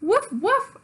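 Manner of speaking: high yappy puppy barks; puppy woofs. Acted. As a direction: bark like an eager little puppy. Child as dog barking.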